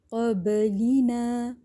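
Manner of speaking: قبلینا slow, ba echoed lightly, no pressure; plain echo on ba. Shown as a demonstration. Teacher models قبلینا with a light echo. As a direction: recite قبلینا with a gentle bounce on the ba. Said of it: "صحیح ہے".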